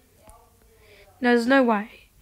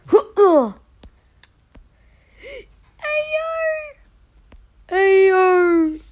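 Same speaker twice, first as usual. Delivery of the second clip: loud shocked ayo after a gasp; 7 semitones higher, 7 dB louder than usual. Real, not acted. Gasps at a teamer.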